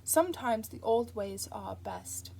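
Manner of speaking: slow, measured delivery; slowly. Acted. The angel giving in to Crowley, slow and deliberate. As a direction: draw each word out deliberately. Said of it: "said the angel slowly".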